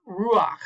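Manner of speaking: "ruach" with an "a" before the final ch; furtive patach. Shown as a demonstration. Teacher showing a helping vowel, "ruach" said "ru-akh". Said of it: "pronounce the vowel before the consonant".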